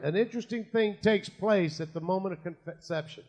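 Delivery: slurred by loose false teeth; words blurred by loose dentures; toothless. Real, not acted. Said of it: "My teeth".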